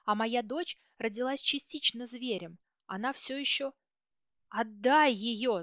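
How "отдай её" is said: slow, louder wail like a madwoman; mother screaming for her child; frantic scream. A narrator's reading. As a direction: howl the demand, half out of your mind. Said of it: "завопила я, как сумасшедшая".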